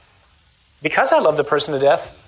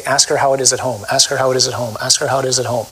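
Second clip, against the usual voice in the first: a lower, steady inner voice, said three times; inner voice repeating; 4 semitones lower than usual. Retold or imitated. Preacher voicing God's nudge about a young girl, a low steady repeated prompt. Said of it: "kept hearing this voice over and over again say".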